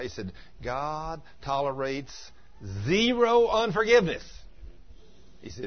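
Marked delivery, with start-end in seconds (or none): 0.6-4.2 mock preacher thunder on zero unforgiveness; stern declaration. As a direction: hammer it home like a preacher scolding. Preacher quoted rebuking the sick.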